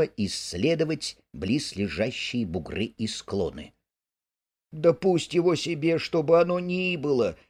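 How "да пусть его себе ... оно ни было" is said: higher, tongue-tied from pain; slurred with pain. Acted. Mole, in pain, brushing off Rat's search, slurring. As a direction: stumble through the words, hurting. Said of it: "заплетающимся от боли языком".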